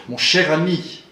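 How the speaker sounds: "Mon cher ami" with firm CH and M; crisp diction on "Mon cher ami", vowels kept short; leaning on consonants. Shown as a demonstration. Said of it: "appuyer beaucoup sur les consonnes".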